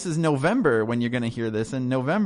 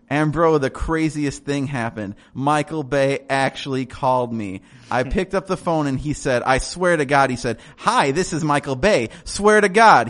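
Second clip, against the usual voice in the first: a touch of a stoked fanboy; excited fanboy. Acted. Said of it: "Um, a character piece".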